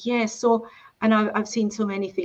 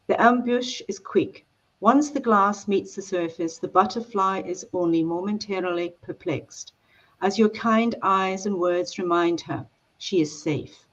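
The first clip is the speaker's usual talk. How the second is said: reading aloud. Acted. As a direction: read it like the opening of a novel. Author reads book opening aloud.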